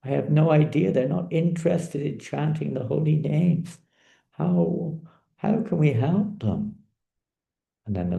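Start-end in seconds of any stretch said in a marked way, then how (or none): 0.0-6.8 higher, urgent worry; deeply concerned. Acted. Sage to his Lord about fallen people, deeply concerned. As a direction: plead for a solution, voice lifted. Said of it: "I'm so concerned about the fallen condition".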